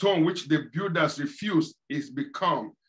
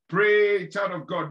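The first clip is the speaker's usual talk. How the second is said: preacher urging the flock louder; louder exhortation; 4 dB louder than usual. Real, not acted. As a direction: Pray pushed out louder.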